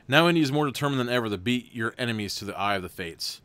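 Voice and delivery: even, steady storybook read; story narration. A narrator's reading. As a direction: read the gamebook aloud to the viewers. Reads gamebook narration.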